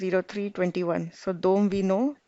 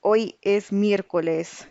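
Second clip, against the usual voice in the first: slow model answer. Shown as a demonstration. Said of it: "What day is today?".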